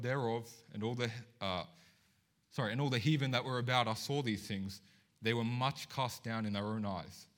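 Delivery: solemn public reading, slowing toward the end; scripture reading. Acted. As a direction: read the verse with weight. Reads scripture aloud.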